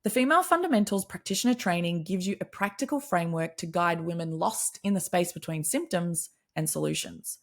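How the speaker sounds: lightly polished promo read; upbeat sponsor read for a training program. Acted. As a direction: pitch the course to practitioners.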